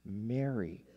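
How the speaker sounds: quietly personal, intimate call by name. Retold or imitated. Risen Jesus calls Mary by name at the tomb, intimate. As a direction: say the name gently, as if to her alone. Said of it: "Very personal, very intimate".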